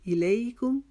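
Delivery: الیکم with the doubled meem held one alif long; pause on mim. Shown as a demonstration. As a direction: rest on the meem of الیکم, then release. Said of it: "میم مشدد پہ آئے تو ہم نے ایک الف کے جتنا رکے". (الیکم کی میم مشدد پر ایک الف رک کر پڑھیں)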